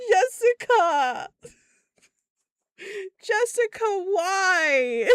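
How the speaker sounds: high, loud, drawn-out plea; exasperated wail. Retold or imitated. Boss wailing her employee's name in disbelief.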